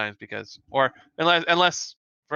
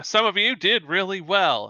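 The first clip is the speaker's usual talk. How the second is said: instructor's praise, a little higher; measured praise; 4 semitones higher than usual. Acted. Instructor to the top students, lightly acted praise. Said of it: "She's like".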